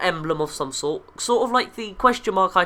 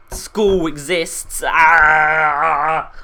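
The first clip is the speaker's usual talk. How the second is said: mock exasperated shout; 3 semitones lower, 7 dB louder, much slower than usual. Mock complaint about school.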